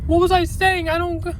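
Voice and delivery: high, panicky questioning; lost and scared mid-attack; frightened confusion. Real, not acted.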